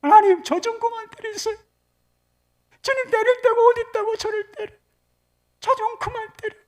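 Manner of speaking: high, loud protest to heaven; acted exasperated outburst at God; defiant prayer. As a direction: wail back like a rebelling child. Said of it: "반항하는 마음이 들더래".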